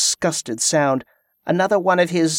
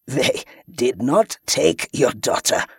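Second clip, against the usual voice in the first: chuckling. Acted. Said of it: "he chuckled".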